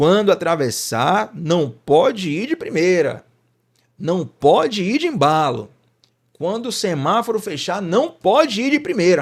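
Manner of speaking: put-on drunk man voice, high, loud, slow drunken yelling.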